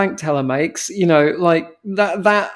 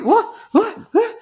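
indignant disbelief. Pretend. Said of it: "I would be like".

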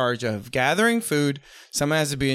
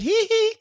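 high hee hee. Acted. High giggle bit.

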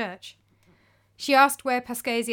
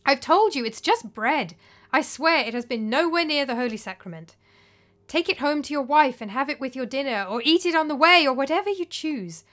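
raised and louder, growing impatience; annoyed; 3 semitones higher, 4 dB louder than usual. Acted. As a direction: press him, losing patience. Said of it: "starting to get quite annoyed".

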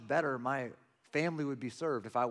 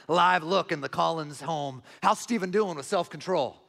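news reporter; 2 semitones higher, 5 dB louder than usual. Retold or imitated. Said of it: "you bring the newscast to our home".

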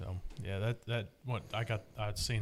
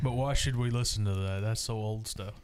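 sarcastic; 3 dB louder than usual. Acted. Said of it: "That was sarcasm".

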